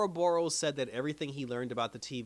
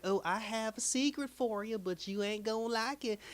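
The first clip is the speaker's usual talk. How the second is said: much higher put-on cartoon voice, teasing; Miss Minutes voice; 10 semitones higher than usual. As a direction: tease like a sly cartoon clock. Voicing Miss Minutes' secret tease.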